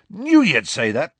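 loud, high, delighted approval; beaming delight. A narrator's reading. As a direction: crow it proudly to a friend. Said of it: "beaming and thumping Harry on the arm".

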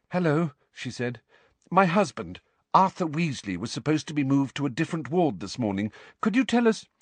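a light motherly witch; Mrs Weasley voice. Acted.

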